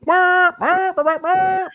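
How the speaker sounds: loud, high honking wail; imitated car horn. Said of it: "are you still wailing on the horn".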